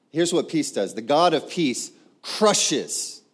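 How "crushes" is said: CRUSHES drawn out with weight; weighty emphasis. Shown as a demonstration. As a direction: lean slowly on the word CRUSHES. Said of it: "Do you feel the weight of it?".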